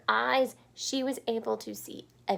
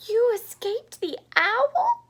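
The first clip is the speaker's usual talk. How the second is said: high, loud and slow joyful cry; cried out; 14 semitones higher, 10 dB louder, slower than usual. Acted. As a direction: cry it out in joy. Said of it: "cried Stellaluna".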